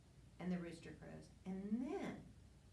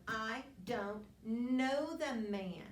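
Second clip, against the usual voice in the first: slow and loud, each word dragged out; sworn denial; 3 semitones higher, 5 dB louder, slower than usual. Retold or imitated. Peter cursing at the bystanders, slow loud oath. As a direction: swear it, heavy and deliberate. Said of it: "and he swore to them".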